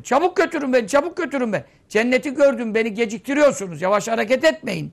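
mildly acted eager urging; eager cry. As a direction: hurry the bearers along impatiently. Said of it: "iyiyse de cenneti çabuk götürün diye".

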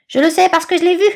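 high, loud, slow bragging eagle voice; proud little eagle. A narrator's reading. Eagle boasting he sees everything, high and slow. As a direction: lord it over them from on high. Aiglon keeps arguing, showing off.

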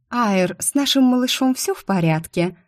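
sweet, high-pitched coaxing voice with a push on «нашим»; ласковый голосок. A narrator's reading. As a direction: coo it sweetly, leaning on «нашим». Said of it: "Ласковым голоском с нажимом на слове". (ласковым голоском, с нажимом на «нашим»)

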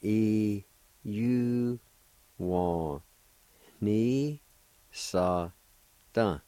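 each syllable said apart with a pause. Shown as a demonstration. Teacher sounding out the word for fault, syllable by syllable. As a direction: sound out every syllable separately. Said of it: "It's pronounced like this".

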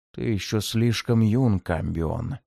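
low, gurgling, reproachful demon; gurgling disapproval. Acted. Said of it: "осуждающе пробулькал демонический патриарх".

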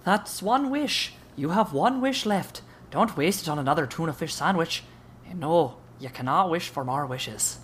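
a light Irish brogue, warning; Irish accent. Acted. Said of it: "said the leprechaun".

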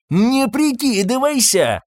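high, slow venomous hiss; hissed threat. Acted. Master to the groom, hissed warning. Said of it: "зашипел на него Фабьен".

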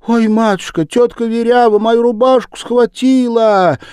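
высокий громкий зов, испуганно; позвать мать, срываясь на крик; крик о помощи. A narrator's reading. Девочка зовёт мать на помощь. (громкий крик девочки к матери)

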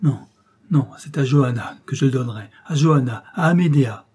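cling to the names in fright; frightened refusal. Acted. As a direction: general insisting in terror. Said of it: "il répétait".

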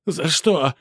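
high, loud wail; howling. A narrator's reading. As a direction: howl it after the slap. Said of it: "взвыл дурным голосом".

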